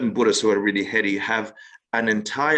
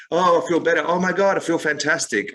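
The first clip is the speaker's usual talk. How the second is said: higher-pitched, gushing beginner's enthusiasm; mock elation; 6 semitones higher than usual. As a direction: gush like the pill just worked. Acting a thrilled new meditator.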